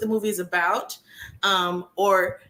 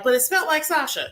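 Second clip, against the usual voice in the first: doubtful people; 8 semitones higher, faster than usual. Retold or imitated. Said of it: "people are like".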